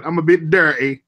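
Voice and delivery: "dirty" with the T dropped, Cockney style. Shown as a demonstration. Learner showing friends the T trick, "dirty" without its T. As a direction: demonstrate Cockney by leaving the T out of "dirty". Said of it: "just drop the T's".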